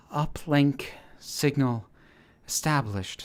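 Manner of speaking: slow robotic report; flat machine announcement. A narrator's reading.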